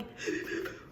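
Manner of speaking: quick breathy sob gasps, put on; mock sobbing gasps. Shown as a demonstration. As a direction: imitate someone sobbing, no words. Imitates sobbing she says she wasn't doing.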